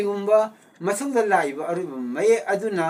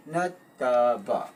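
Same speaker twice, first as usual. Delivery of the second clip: syllable by syllable; 5 semitones lower, much slower than usual. Shown as a demonstration. Teacher splits word into syllables.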